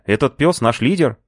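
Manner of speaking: high, disbelieving question; can't believe it; surprised. A narrator's reading. Narrator questioning the boss, disbelieving.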